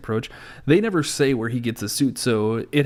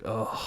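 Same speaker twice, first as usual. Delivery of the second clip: soft disgusted groan; 9 dB quieter than usual. Retold or imitated. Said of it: "you're just like".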